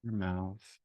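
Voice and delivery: unhurried meditation guidance with long pauses; guided meditation. Real, not acted. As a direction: gently lead listeners through breathing and noticing.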